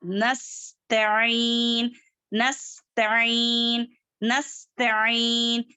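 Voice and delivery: slow, level-toned verse with elongated vowels; Quran recitation. Shown as a demonstration. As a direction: recite measuredly, holding the long syllables. Recites word slowly for students.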